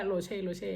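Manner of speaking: โรเช่ said twice, open "-chê" ending; German pronunciation. Shown as a demonstration. Showing viewers the husband's name, German-style โรเช่ ending "-chê". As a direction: repeat โรเช่ the German way, soft "ch". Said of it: "เขาเรียกว่าโรเช่".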